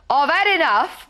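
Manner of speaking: put-on a light New York accent on the quit line; fed-up New Yorker, lightly done; lightly voiced New York steward quitting. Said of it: "I don't know why I'm putting on that accent".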